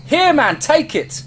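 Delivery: high, loud call from above; urgent shout. A narrator's reading. Man above throwing an axe to the runner, urgent shout. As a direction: shout down to someone running past. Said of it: "a man above shouted".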